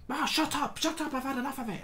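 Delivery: lightly hammed-up Bob brushing off a classmate; mock retort. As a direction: pitch up, dismissive teen. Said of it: "He's like".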